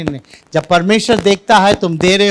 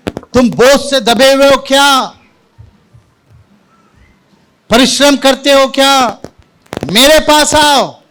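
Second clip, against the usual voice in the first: raised, high preaching cry; calling out; 5 semitones higher than usual. Acted. Preacher speaking as Jesus to the church, calling out. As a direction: call the burdened over in a ringing voice. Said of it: "प्रभु यीशु मसीह कह रहे हैं".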